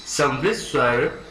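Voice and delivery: समवृत स्वर said slowly, each syllable clear; slow, careful term. Shown as a demonstration. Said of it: "समवृत शब्द का जो अर्थ होता है".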